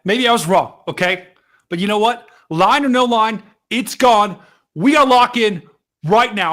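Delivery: rally the chat, fired up; excited loud. Real, not acted. Hyped storm chaser rallying chat.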